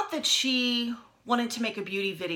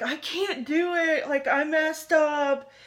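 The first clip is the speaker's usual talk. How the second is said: higher, slower imitation of a crying little girl's wail; upset little girl; 6 semitones higher, slower than usual. Vlogger imitating upset girl failing her eyeshadow, mock tearful. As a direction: mimic the girl sobbing that she messed up. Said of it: "And she says something like".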